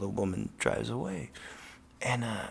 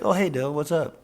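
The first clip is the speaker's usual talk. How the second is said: breezy dealer greeting; 5 semitones higher, 5 dB louder than usual. Retold or imitated. Coke dealer greeting casually.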